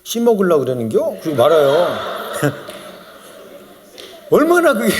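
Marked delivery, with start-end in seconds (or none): 0.0-1.2 lightly voiced Chungcheong drawling question; understated teasing in Chungcheong dialect. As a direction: imitate a Chungcheong local's sly remark. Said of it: "충청도 안 그래요".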